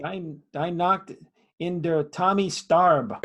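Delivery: put-on slow, hammy German accent. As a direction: read it out in a bad German accent. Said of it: "your German accent is impeccable".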